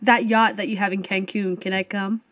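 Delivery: lightly affected socialite small talk; put-on small-talk voice. Chatting up a celebrity courtside, in a lightly put-on voice. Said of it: "Why are you putting a voice on?".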